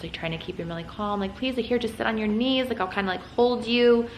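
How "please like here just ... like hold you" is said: mild imitation of pleading, pitched higher; a touch of coaxing, retold. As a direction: plead lightly, trying to keep a toddler calm. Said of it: "I'm, like, pleading with him".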